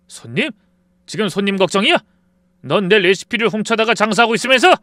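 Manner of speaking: loud, rising outrage; furious yelling at an old friend; angry confrontation. Acted. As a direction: shout him down for the stolen recipe. Confronting friend over stolen recipe.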